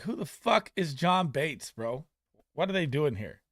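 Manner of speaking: loud, high, disbelieving rant; retold outrage. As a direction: yell it like you can't believe the depth chart. Retold outraged reaction to lineup.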